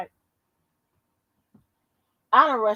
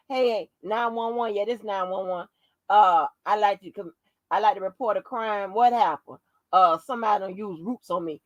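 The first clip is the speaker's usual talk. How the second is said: lightly acted caller and dispatcher, lower pitch; mock emergency call; 4 semitones lower than usual. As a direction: play a deadpan call to report a crime.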